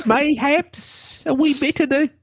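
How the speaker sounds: a hint of posh English gentleman; English accent. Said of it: "Where's your accent from, Milo?".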